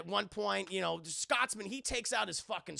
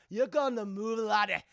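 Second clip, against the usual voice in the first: threatening Scotsman; 5 dB louder than usual. Retold or imitated. Retold Scotsman threatens Jack.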